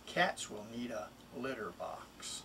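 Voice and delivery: a pet-store mouse selling himself, lively and bouncy; lightly voiced mouse, playful and persuasive; eager mouse reading his rhyme. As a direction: read it as the little mouse pleading to go home. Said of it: "It's really the mouse speaking".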